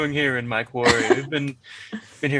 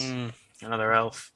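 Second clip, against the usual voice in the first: put-on old prospector; 4 semitones lower, 5 dB quieter than usual. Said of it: "the grizzled old prospector".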